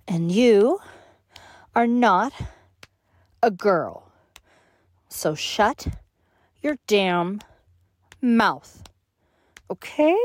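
each phrase spaced out with pauses; word by word. Acted. Emphatic word-by-word threat.

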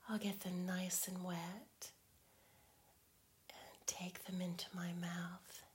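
intimate teasing whisper. Acted.

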